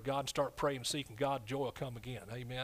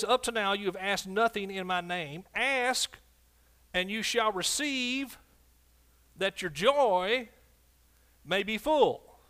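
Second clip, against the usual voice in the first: louder, slow, drawn-out verse building to full; preaching scripture; 5 semitones higher, 5 dB louder, slower than usual. Acted. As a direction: stretch "that your joy may be full" slowly from the pulpit. Preacher reads promise of joy.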